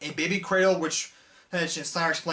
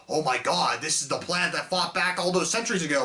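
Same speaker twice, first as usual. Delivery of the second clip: mock amazement; 2 semitones lower than usual. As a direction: sarcastically act out his fake shock. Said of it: "He's like".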